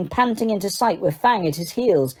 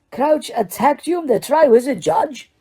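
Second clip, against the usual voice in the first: rising disbelief; 7 semitones higher than usual. Acted. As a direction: push the disbelief further, higher. Repeated, more incredulous.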